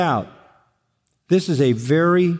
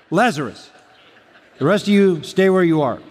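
playful calling out, higher on the warning; mock command; 3 semitones higher than usual. Preacher voicing Jesus limiting the resurrection, mock command. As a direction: issue a joking order to a crowd. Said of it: "he had to put a limit on it".

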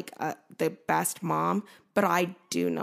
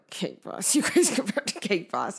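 laughing disbelief; 3 semitones higher than usual. Retold or imitated. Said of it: "My employees are like".

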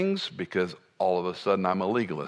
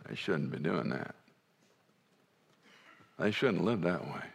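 mock judgmental; 4 semitones lower, 7 dB quieter than usual. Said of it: "You ever do this".

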